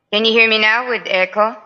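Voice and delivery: hollow bathroom echo on the voice. Real, not acted. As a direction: speak with a boomy tiled-room echo. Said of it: "It sounds like you're in the bathroom".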